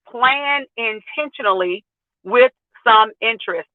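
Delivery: talking around a retainer; words slurred by a retainer in the mouth; wearing a retainer. Real, not acted. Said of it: "I've got this retainer in my mouth".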